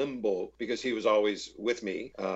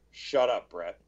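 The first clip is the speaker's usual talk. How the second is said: out of the side of the mouth; 3 semitones lower, slower than usual. Retold or imitated. Astronaut cutting off the tipsy actor at dinner, a deadpan side-of-mouth line. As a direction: barely move the lips, curt and dry. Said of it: "just said out of the side of his mouth".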